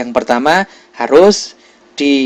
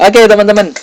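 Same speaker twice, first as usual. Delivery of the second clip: laughing; 6 semitones higher, 5 dB louder, faster than usual. Real, not acted. Laughing while addressing class.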